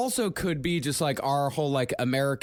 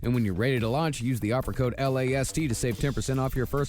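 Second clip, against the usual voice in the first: bright podcast ad read over music. Acted. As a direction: sell it like a sponsor spot. Reads a sponsor ad.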